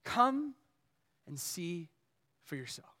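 fading to very soft and low; hushed, unargumentative reply; gentle invitation. Acted. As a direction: let each phrase drop away softly, with pauses. Philip's gentle answer to the scoffer.

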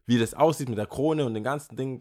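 ordinary talk

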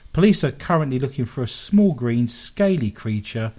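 lively, emphatic radio story reading; story read aloud. Acted. Radio host reads listeners a goblin story, read-aloud voice. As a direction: read the odd news item with relish.

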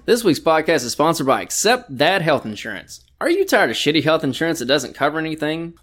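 scripted sponsor pitch; mock ad read. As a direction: sell it like a commercial spot.

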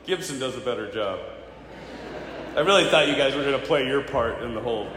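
low, soft joking letdown; deflated aside. Real, not acted. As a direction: drop into a dry, quiet grumble. Deflated aside after unanswered cheer.

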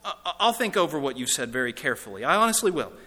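hesitant, stammering excuses; a hint of a flustered, evasive ghost; lightly voiced reluctant ghost. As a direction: stall politely with nervous excuses.

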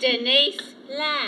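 very slow, hypnotised name; dazed monotone. Acted. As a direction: say your name as if in a trance. Dazed woman repeats her name.

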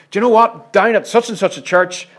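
hammed-up thrill over a star preacher; mock-eager churchgoer spreading news; mock excited gossip. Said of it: "they'll say to themselves".

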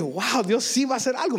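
asombro entusiasta retomado; emocionado. Retold or imitated. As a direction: reaccionar contagiado de fe. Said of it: "me emocioné". (emoción contagiada)

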